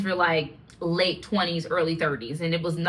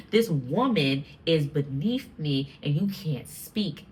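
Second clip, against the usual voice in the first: slow, lower, measured put-down; mock contempt; 4 semitones lower, slower than usual. Man dismissing a woman beneath him, mock contempt. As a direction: lightly imitate a man talking down. Voicing harsher misogyny as contrast.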